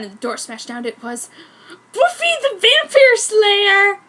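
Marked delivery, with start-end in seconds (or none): 1.9-4.0 loud, high, slow announcement; dramatic reveal. Acted. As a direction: reveal the villain with a gasp.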